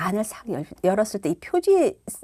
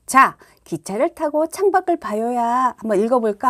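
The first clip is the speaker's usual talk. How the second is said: put-on reading to a child; 3 semitones higher, 6 dB louder than usual. Shown as a demonstration. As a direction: coax the child into the book. Demo reading cover to child. (아이에게 책을 권하듯 천천히 크게)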